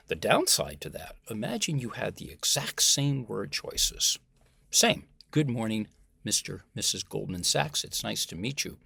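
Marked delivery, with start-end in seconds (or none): 5.3-8.8 lifeless, indifferent. Shown as a demonstration. Candidate greets Goldman Sachs interviewer, lifeless and indifferent. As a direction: say it with no interest at all. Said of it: "done in a way that is lifeless, indifferent".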